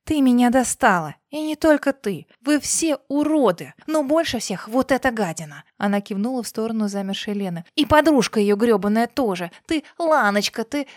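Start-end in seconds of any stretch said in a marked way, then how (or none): 0.0-5.6 enraged boss roar. Acted. Dina's outburst at the guests. 7.7-10.9 enraged boss roar. Acted. Continued outburst.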